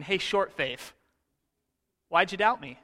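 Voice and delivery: good-natured razzing, "short faith" tossed off lightly; buddy nudging. Retold or imitated. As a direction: tease him like an old friend. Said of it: "nudging him like a buddy going".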